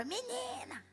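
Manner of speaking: imitating boss call. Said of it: "ela gritava".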